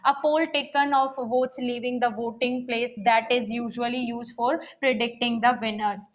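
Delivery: reading an English definition slowly and evenly; slow dictation read. Shown as a demonstration. Teacher reading a definition aloud to students, slow and even. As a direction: spell it out word by word for students.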